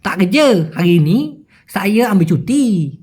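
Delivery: slurred Malaysian slang, last word stretched; unclear Malaysian slang. Shown as a demonstration. Worker replying about leave, in slurred Malaysian slang. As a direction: drawl the ending in Malaysian slang. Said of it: "অতটা কিলা বলে না".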